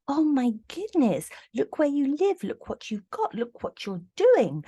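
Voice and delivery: gasp, then high, awestruck gushing; high-pitched, hammed-up wonder at someone's perfect life; mock admiration. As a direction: imitate a starstruck onlooker. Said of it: "everybody looks at them and go".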